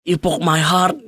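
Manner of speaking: a hint of a hammed-up broken heart; mock heartbroken girl. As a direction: tease a girl's wounded whimper. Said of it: "cewek sakit hati".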